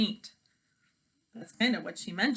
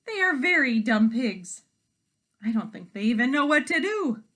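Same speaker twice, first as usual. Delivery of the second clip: loud snooty hen; 3 semitones higher, 6 dB louder than usual. Acted. Hens gossiping loudly.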